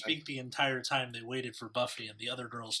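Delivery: put-on reading with a British accent. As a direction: read it like an English gentleman. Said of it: "I can either speak in a British accent".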